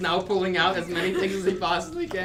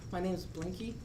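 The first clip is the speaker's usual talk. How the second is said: small troll voice; 4 semitones higher, 4 dB quieter than usual. Acted. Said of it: "and he goes".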